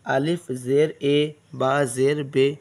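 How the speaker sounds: अलिफ ज़ेर ए with the long open e, village style; the avoided majhul reading; majhul vowel. Shown as a demonstration. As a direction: say बे with an e sound, the way villages teach it. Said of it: "मजहूल आवाज़ से बचा जाए".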